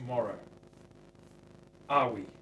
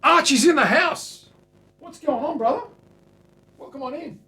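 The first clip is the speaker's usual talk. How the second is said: very high, loud cartoon greeting; squeaky greeting voice; 16 dB louder than usual. Welcoming Archie into the shop, very high squeaky voice.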